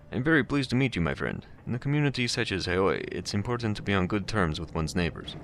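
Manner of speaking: put-on pleasant, cultured voice with slight Russian accent; amateur Russian accent, politely cautioning a visitor; hint of Russian accent. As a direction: lightly voice a courteous Russian. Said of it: "There's a hint of a Russian accent".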